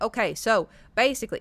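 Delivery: a touch of Texan talk; Texas accent. Retold or imitated. Mom's boyfriend advising on the car, Texas accent. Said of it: "he really talks like this, by the way, very Texas".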